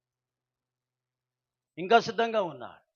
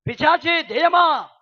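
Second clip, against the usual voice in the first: mock shouting insult; 8 semitones higher, 10 dB louder, slower than usual. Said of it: "గట్టిగా కేకలు వేస్తుంది".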